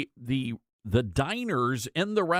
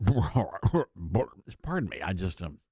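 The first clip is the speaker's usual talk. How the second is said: slow, lower "Pardon me" through a suppressed laugh; laughing apology; 7 semitones lower, slower than usual. Real, not acted. Host mocking a restaurant owner's statement, laughing apology. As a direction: try to stop laughing and apologize. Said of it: "must have been something I ate".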